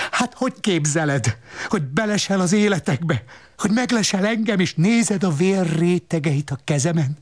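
high, fast, needling scold; scolding woman. Acted. The woman scolding the boy for spying, in a high needling voice. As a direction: nag him mockingly, pitched high.

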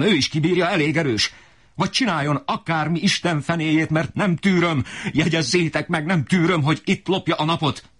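mock the idle young master in fury; enraged father. Father demands son work, high sneering rage. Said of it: "még jobban megbőszült".

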